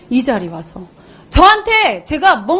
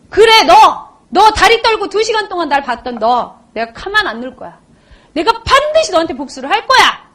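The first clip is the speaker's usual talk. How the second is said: vengeful vow; 3 semitones higher than usual. Retold or imitated. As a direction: swear revenge on the one who watched you. Acts out her vow of revenge. (복수를 다짐하는 말투)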